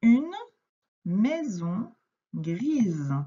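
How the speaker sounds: each word set apart by pauses, for a beginner reader; slow read-aloud. Shown as a demonstration. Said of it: "Premier groupe de mots".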